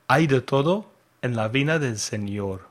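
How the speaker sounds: Spanish with a bad accent. Real, not acted. Teacher quizzing learners on idiom translations, bad Spanish accent. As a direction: read the Spanish in a non-native accent. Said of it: "in my bad Spanish accent".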